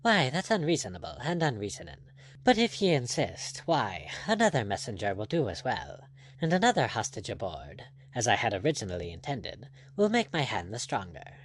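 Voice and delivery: lightly voiced, easygoing buccaneer; a hint of a composed pirate captain; unruffled pirate captain. Blood answering the angry lord, lightly voiced and unruffled.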